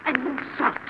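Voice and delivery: offended, high and loud at the start; indignant, then settling; indignant outburst. Acted. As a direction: take sharp offence at the insult. Maid offended at being called names.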